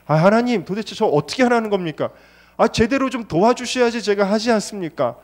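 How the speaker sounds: retold complaint. Preacher's retold complaint to God.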